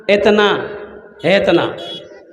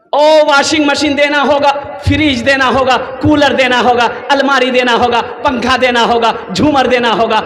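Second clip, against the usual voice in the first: insistent chant-like list of demands; hammed-up relentless demanding; demanding in-law. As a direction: reel off each demand with the same emphatic beat. Acted groom's side listing demands.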